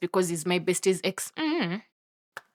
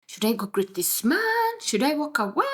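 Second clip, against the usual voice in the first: dithering inner voice; 5 semitones higher than usual. Acted. Woman debates whether to greet her crush, dithering. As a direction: stretch out each question, unsure. Torn, asking herself what to do.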